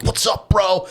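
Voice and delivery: mock-chill greeting to a friend; bro greeting. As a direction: toss off a breezy bro hello. Casual greeting acted out mid-sex.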